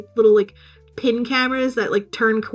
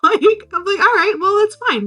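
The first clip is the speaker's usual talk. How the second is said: laughing; 10 semitones higher, 3 dB louder than usual. Real, not acted. Still laughing.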